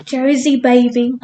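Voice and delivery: brief put-on Jersey accent; playful Jersey catchphrase. Shown as a demonstration. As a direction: try out a Jersey drawl. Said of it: "how to do the Jazzy accent".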